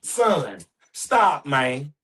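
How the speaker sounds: controlled fatherly yell, punched on "stop"; firm yell. Shown as a demonstration. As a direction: call a son sharply to order. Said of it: "I'm yelling in a way of like".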